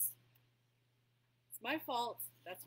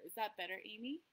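talking louder; 5 dB louder than usual. Real, not acted. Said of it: "I'll talk a little bit louder".

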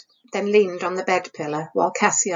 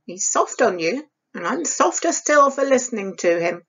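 stern, scolding stepmother, a little raised. Acted. Stepmother scolding Isabel over the candle, sharp and stern. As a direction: scold the girl like a harsh stepmother. Stepmother voiced in read story.

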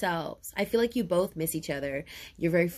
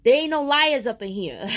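emphatic; 5 semitones higher, 7 dB louder than usual. Real, not acted. Asserting honesty.

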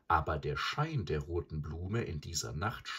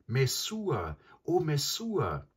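hoher, gedehnter Ruf nach jemandem; verhaltenes Rufen; 10 semitones higher, 5 dB louder, slower than usual. A narrator's reading. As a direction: ruf den Namen hoch und lauter, aber ohne zu schreien. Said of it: "rief er leise". (Mowgli ruft die Frau in der Hütte, rufend)

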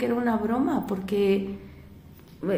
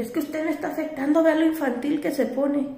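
mock scolding driver; 6 semitones higher than usual.

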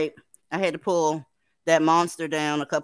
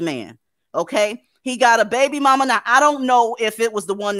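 excited gossip; 5 semitones higher, 5 dB louder than usual. Real, not acted. Excited gossip about clip.

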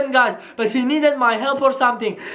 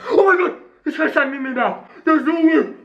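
excited; 5 semitones higher than usual. Real, not acted. Sonic calls back.

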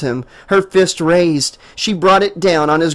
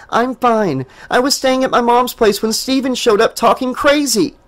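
frustrated; 7 semitones higher than usual. A narrator's reading. Jessica frustrated.

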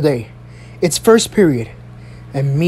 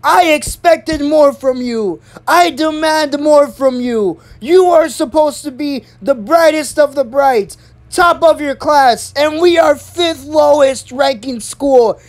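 high, slow, emphatic scolding; retold raised voice; 7 semitones higher, slower than usual. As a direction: imitate the principal berating her class. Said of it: "She literally raised her voice".

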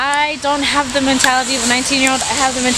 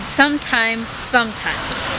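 sometimes drawn out very slowly; slow, testing the word; much slower than usual. Shown as a demonstration. Vlogger repeats the word to camera, slow and puzzled. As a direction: stretch out sometimes, tasting how odd it sounds. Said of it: "That's weird to say".

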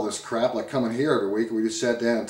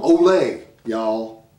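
mock Southern-Mexican accent; 4 semitones lower, 4 dB louder, much slower than usual. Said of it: "take the accent and go on home".

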